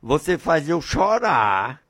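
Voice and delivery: heavenly father answering his frightened son; tender father. Acted. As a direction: soothe the boy, then grow to a blessing. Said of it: "Aí o pai chegou".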